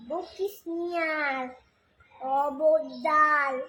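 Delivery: lilting, measured recital of a verse; poem recitation. Acted. Reciter performing Sukumar Ray's poem for listeners, lilting recitation. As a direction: recite line by line, pausing between phrases, questions sung out.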